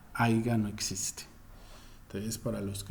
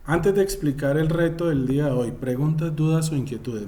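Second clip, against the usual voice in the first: calling out; 5 semitones higher, 8 dB louder than usual. Real, not acted. Teacher calls out to the class.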